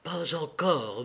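soft, slow murmur. Acted. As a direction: let it fall quietly, almost to herself. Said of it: "murmura la comtesse".

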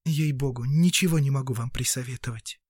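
apologetic, understated; regretful. Acted. Girl tells the doctor she has no advice, mildly regretful. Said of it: "с сожалением сказала девушка".

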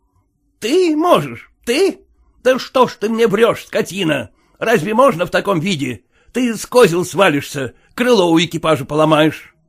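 high, scornful scolding; scolding master. Acted. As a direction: scold a drunk servant. Owner scolds drunk coachman.

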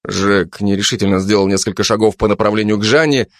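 ordinary delivery

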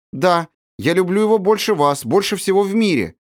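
high, fervent outburst; heartfelt. A narrator's reading. Sibirochka confessing her love for Andryusha, fervently. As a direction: burst out with it from the heart. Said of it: "горячо вырвалось из её груди".

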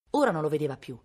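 ordinary delivery, nothing marked

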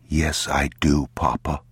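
put-on feed the child his answer evenly; restrained, measured prompting; father prompting. Father models the boy's answer.

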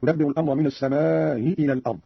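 long aa in "السماء", its hamza softened before "إلى"; eased hamza with madd. Shown as a demonstration. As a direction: glide from "السماء" into "إلى" without a firm glottal stop. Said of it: "بتسهيل الهمزة الأولى مع المد".

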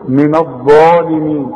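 من الظالمين with a long, dark DHAA; two-count alif. Shown as a demonstration. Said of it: "بنديها حركتين".

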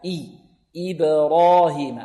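slow "إبراهيم" with a true i before the bounced b; corrected kasra. Shown as a demonstration. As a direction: clear "ee" sound starting "إبراهيم". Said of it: "لابد أن نحافظ على الكسر". (كسرة خالصة في "إبراهيم")

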